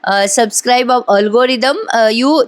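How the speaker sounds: slow, halting mock English; stall, then grope for English words; imitating a bluffer stuck for words; faltering English bluff. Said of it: "तिला काही English बोलता येईना".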